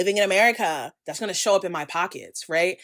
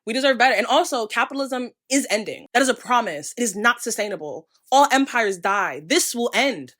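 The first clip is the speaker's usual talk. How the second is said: louder and higher, fired-up rallying; passionate rant; 4 semitones higher, 4 dB louder than usual. Real, not acted. Urging followers the world is waking up, loud and fired up. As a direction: rouse the audience like a protest speech. Closing rallying cry against capitalism.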